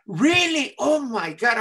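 high, delighted surprise; so happy. Acted. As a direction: gasp it out like a thrilled kid. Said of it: "I was so happy".

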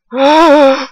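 high drawn-out wail; frustrated high cry at the game; wordless wail. Real, not acted. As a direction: let out a long, high-pitched wail. Game has no sound.

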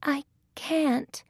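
high-pitched little heroine voice; Thumbelina. A narrator's reading. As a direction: refuse in a small, high voice. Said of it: "says Thumbelina".

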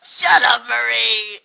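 loud furious shout; angry shout. Acted. Shouting at Marie to shut up. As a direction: yell it to shut her up.

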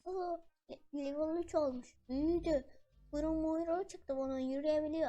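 high, loud delighted cheering; thrilled the puppy grew up; excited. Real, not acted. Pet levels up.

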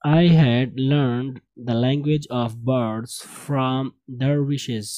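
slow, measured read-aloud; model reading. Shown as a demonstration. Teacher reads story to class, slow model reading. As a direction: read it out slowly for learners.

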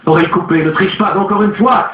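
high, commanding warning; lightly voiced cry. A narrator's reading. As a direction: warn him not to cheat. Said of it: "criait Madame Olcott".

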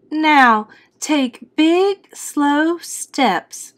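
high mother's voice, coaching; instructing mother. A narrator's reading. Mother teaches Frankie to walk.

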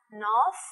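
North ending with tongue between the teeth. Shown as a demonstration. Teacher shows how to say North with the tongue out. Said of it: "đưa lưỡi ra".

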